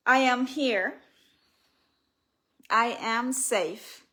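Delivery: measured, deliberate self-affirmation; spoken affirmation. Shown as a demonstration. Author showing listeners what to tell themselves, deliberate affirmation. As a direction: affirm it firmly, stretching the last word. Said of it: "And whisper to yourself".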